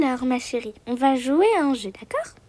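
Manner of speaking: plus grave et plus doux, inquiétant; menace doucereuse. Acted. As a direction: menacer tendrement. Père menaçant doucereux. (père meurtrier menaçant sa fille d'un ton doux)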